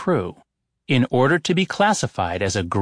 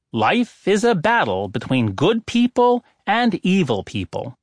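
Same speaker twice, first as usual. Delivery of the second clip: a higher, lightly voiced oracle proclaiming "life is a battle"; oracle's pronouncement; 5 semitones higher than usual. Oracle states third rule.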